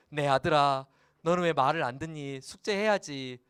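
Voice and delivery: a father's fond nagging; affectionate father. Shown as a demonstration. Pastor scolds his son Hyesung fondly, affectionate. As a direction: gently scold your own son. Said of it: "약간 이제 어감이".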